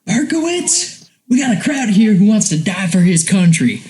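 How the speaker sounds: lightly hammed-up army officer voice; mock commanding order. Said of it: "And so he goes".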